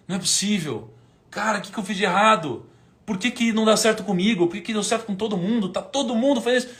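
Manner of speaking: a desperate lament that swells into a cry; despairing rant. Retold or imitated. Crying alone in the car at night, despairing and building. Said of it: "Chorando de noite".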